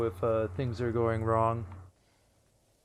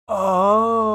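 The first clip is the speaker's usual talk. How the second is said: surprised; 9 semitones higher, 10 dB louder than usual. Real, not acted. Sudden discovery while fixing audio.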